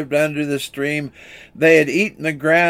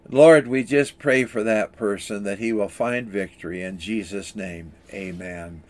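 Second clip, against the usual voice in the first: earnest prayer, sinking softer toward the amen; closing prayer; 3 semitones lower, 3 dB quieter than usual. Real, not acted. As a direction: pray for the listeners, letting it drop low and quiet at the end.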